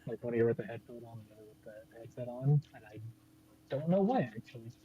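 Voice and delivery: muffled, like through water; sounding submerged and distant; underwater. Real, not acted. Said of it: "You sound like you're underwater".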